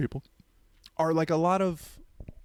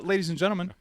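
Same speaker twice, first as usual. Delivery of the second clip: Hispanic accent; 5 semitones higher, faster than usual. Shown as a demonstration. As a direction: greet the crowd with a Hispanic accent. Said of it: "Can I do a Hispanic accent".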